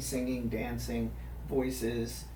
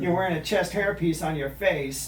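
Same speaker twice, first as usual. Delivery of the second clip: Donald Duck voice; 2 semitones higher, 4 dB louder than usual. Acted. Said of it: "roast ... in the Donald Duck voice".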